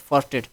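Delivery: فورٹیٹ said as "far-tet"; فورٹیٹ with every consonant heard, f to final t; no silent letters. Shown as a demonstration. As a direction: sound out both syllables of فورٹیٹ, "far-tet". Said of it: "کوئی silent وغیرہ کی بات نہیں".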